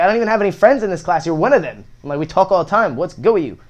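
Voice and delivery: mock-hurt appeal to a classmate; indignant protest. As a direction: protest like you can't believe he's doing this. Retold protest continues.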